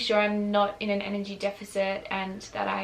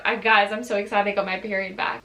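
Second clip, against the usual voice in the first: a touch louder, bubbly announcement to viewers; playing her future self, gushing to her viewers; mock excited video intro; 5 dB louder than usual. Future video greeting viewers, lightly acted excitement. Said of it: "I've had on my list for ages to do a video of".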